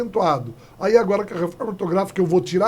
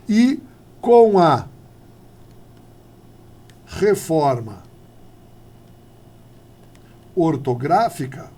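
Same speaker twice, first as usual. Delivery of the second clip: drawn out word by word; slow, spaced emphasis; 3 dB louder, slower than usual. Shown as a demonstration. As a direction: spell it out slowly with long pauses. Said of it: "slow spaced delivery". (lento, palavra por palavra, com pausas longas)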